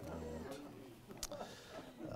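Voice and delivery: breathy stage whisper. Shown as a demonstration. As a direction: drop to a whisper for the punchline. Whispers the last repeat.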